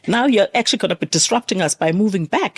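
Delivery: mildly indignant mock complaint; imitating a grumbling passenger; irritated passenger. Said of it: "typical South African attitude would be like".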